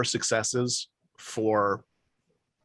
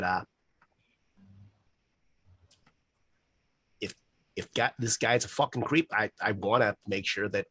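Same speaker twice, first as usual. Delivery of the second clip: put-on Boston accent. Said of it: "worst fucking Boston accent I've ever done".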